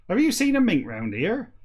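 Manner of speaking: high-pitched West Country farmer impression. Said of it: "Like a farmer".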